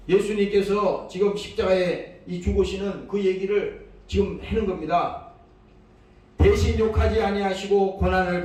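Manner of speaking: emphatic, measured scripture recitation; scripture reading. Acted. Preacher reads Peter's letter to the congregation, emphatic recitation. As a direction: proclaim the verse phrase by phrase, weighty.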